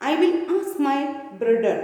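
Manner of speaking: lightly imitated German accent, "brother" as "brudder". Shoemaker mentioning his elder brother, mild German accent. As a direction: say it with a hint of German. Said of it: "this is the accent of German".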